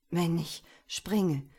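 trembling with fear at the edge; shaky breathless pleading. Acted. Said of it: "sagte er mit zitternder Stimme".

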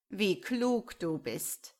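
slow, sneering praise; drawn-out mock compliment. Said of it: "antwortete der Ketzer spöttisch". (spöttisch)

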